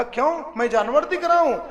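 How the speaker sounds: acted indignation. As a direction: fire back a mock-affronted question.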